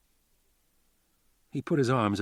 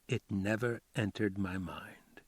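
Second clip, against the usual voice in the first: slow hushed whisper; 6 dB quieter than usual. Acted. Foley answering Karen on the sofa, slow whisper. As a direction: breathe it softly, almost a secret.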